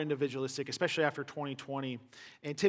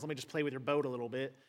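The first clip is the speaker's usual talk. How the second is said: playful; 3 semitones lower, 5 dB quieter, faster than usual. Retold or imitated. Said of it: "makes a little laugh and goes".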